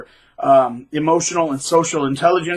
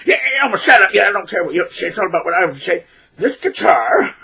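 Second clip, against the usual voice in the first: mock rude brush-off; 3 semitones higher, faster than usual. Guitarist cutting you off mid-sentence, mock dismissive. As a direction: talk over them, hammed-up rude. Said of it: "he'd cut you off in mid-sentence and go".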